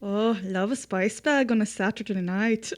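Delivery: put-on a generic Irish accent, cheerful. S1 takes a turn at the Irish reviewer, generic Irish accent. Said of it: "that was good ... a good generic Irish".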